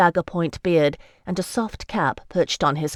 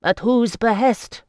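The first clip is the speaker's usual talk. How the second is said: slow, higher and louder, menacing; dangerous; 6 semitones higher, 4 dB louder than usual. A narrator's reading. Ricciardo demanding who is behind the tax, dangerous. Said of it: "Ricciardo asked dangerously".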